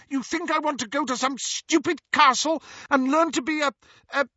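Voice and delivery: high, loud sneering voice; scornful outburst. Acted. Petunia scorns her sister's magic school, high and loud. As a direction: spit out the contempt.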